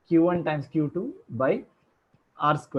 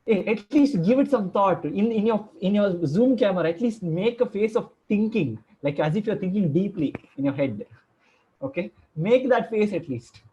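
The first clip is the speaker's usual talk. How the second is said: higher-pitched, playful chiding; mock exasperated; 5 semitones higher than usual. Teacher begging students to pretend to think, mock exasperated. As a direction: plead with them in mock protest. Teacher chides too-quick answers.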